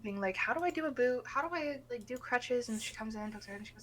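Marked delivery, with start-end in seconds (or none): 0.4-2.7 higher-pitched, puzzled voice; clueless new nurse. Retold or imitated. New nurse asking colleagues about boots and crutches, clueless. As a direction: wonder aloud like a lost beginner. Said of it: "very obviously new".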